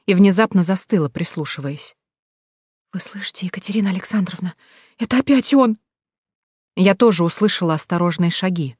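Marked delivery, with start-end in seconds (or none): 2.9-4.6 voiceless frightened whisper. A narrator's reading. Scared girl whispers to the heroine as footsteps approach. 5.0-5.8 scared. A narrator's reading. Frightened girl hears stalker.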